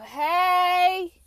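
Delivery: loud, high drawn-out hey; celebratory whoop of a word; excited cheer. Real, not acted. Delighted call at lucky numbers seen.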